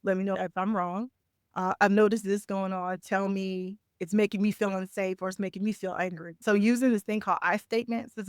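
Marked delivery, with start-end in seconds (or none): 0.0-6.4 calm. Acted. Coach models talking to someone who's upset, calmly. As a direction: say it gently, without accusing. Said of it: "Can you stay calm enough".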